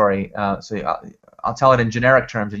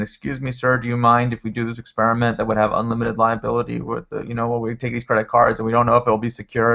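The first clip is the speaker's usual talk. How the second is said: sheepish. Retold or imitated. Team asking the general counsel's permission, mildly sheepish. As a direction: ask meekly, imitating a nervous team. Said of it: "they're so sheepish".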